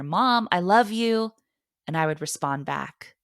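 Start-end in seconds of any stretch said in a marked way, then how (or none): 0.0-1.3 son calling from another room. Retold or imitated. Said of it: "I would hear".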